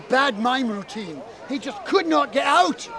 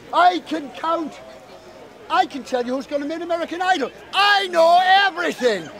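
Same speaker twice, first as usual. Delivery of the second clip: boastful fairy; 3 semitones higher than usual. Acted.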